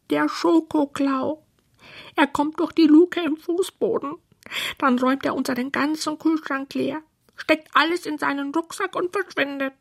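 high anxious creature voice; scared little creatures. Acted. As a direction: tell of the thief in small frightened voices. Scared creatures describe the thief.

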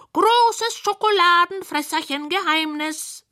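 slow, high, mysterious pronouncement; high, slow, hushed secret-keeping voice; secretive creatures. Acted. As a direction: draw it out like a big secret. Creatures keep their secret.

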